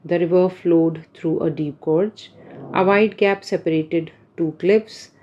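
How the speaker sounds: slow, careful reading of example sentences. Shown as a demonstration. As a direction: read each example slowly and clearly for learners. Reads English example sentences. (उदाहरण वाक्य धीरे-धीरे पढ़ना)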